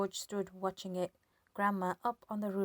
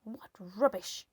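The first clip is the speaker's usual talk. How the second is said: put-on old woman yelling; 6 semitones higher, 5 dB louder, slower than usual. A narrator's reading. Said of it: "she yelled".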